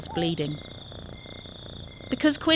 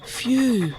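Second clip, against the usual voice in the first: relieved sigh; 5 semitones higher than usual. Acted. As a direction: breathe out the phew like a narrow escape. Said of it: "sighed Quinn".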